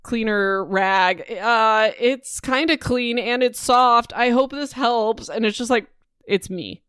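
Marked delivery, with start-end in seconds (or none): 0.0-5.3 slow, higher, awkwardly helpful voice; awkward Millie. Retold or imitated. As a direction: offer the rag uncertainly, slowly. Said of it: "And she's like".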